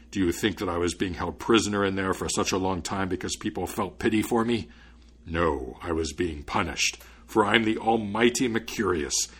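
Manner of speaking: lightly voiced mighty, threatening spirit; a touch of menace, as a proud captor-turned-judge; menacing spirit. Almighty spirit telling the student his doom, mild menace.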